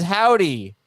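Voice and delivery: put-on Texas howdy; Texas accent. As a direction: read it as a Texan would. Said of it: "Texas accent?".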